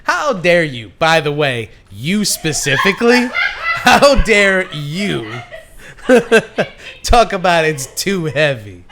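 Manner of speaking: slow, laughing mock indignation; mock outrage. Real, not acted. Scolding his friend in mock outrage, laughing. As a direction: feign offense while laughing.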